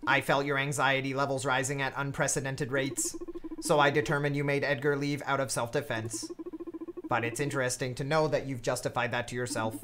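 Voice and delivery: dumb flat robot voice. Acted. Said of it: "I also use a dumb robot voice for her".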